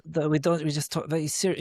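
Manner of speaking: put-on serious German voice; German accent. Shown as a demonstration. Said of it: "give me a German accent".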